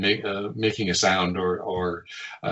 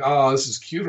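higher-pitched cooing, lifted at the end; mock "aw, cute"; 4 semitones higher than usual. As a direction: lightly act out finding it cute. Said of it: "can you get some motivation for this".

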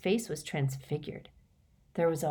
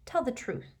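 ringing command; 6 semitones higher, 4 dB quieter than usual. Acted. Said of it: "with a ringing force".

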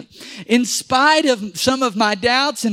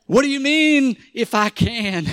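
mock concerned; 3 semitones higher than usual. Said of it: "kinda getting a little bit concerned".

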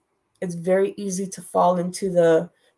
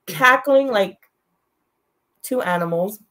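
laughing; 2 semitones higher, 3 dB louder than usual. Real, not acted. Still laughing while telling.

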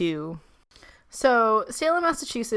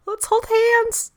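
high slow spooky voice; 14 semitones higher, 3 dB louder, slower than usual. Pretend. Joking ghost scene.

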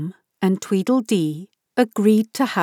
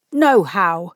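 brisk; 3 semitones lower than usual. Acted. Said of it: "cried out briskly".

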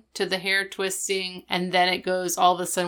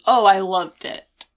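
mock gushing; 7 dB louder than usual. Corey sarcastic quote, loud.

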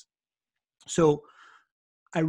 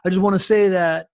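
louder, rough attempt at a Serbian accent; butchered Serbian accent; 3 semitones higher, 6 dB louder than usual. Serbian gentleman telling the group they're best friends, butchered Serbian accent. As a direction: imitate a Serbian man's accent, botching it. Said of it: "when I do the accent".

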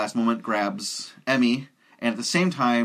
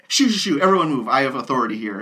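bossy shooing; 3 semitones higher, 4 dB louder, faster than usual. Retold or imitated. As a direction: shoo them off with authority. Hollywood shooing people away.

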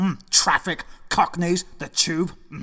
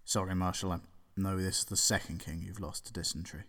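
very soft, faint last words; weak dying voice; 18 dB quieter than usual. Acted. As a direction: fade out like a dying king. Dying king whispering.

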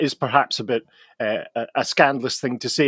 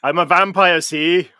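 mock Welsh accent; slower than usual. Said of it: "Welsh accents".

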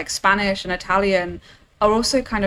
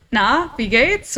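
German greeting; 3 semitones higher, slower than usual. Retold or imitated. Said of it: "they always say".

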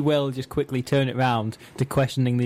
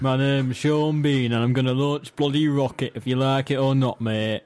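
Sean Bean impression. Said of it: "every line of dialogue he has".

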